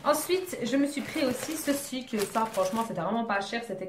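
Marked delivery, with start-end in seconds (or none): none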